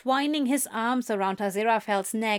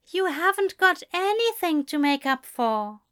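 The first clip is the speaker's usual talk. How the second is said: reassuring; 7 semitones higher than usual. A narrator's reading. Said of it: "he reassured him".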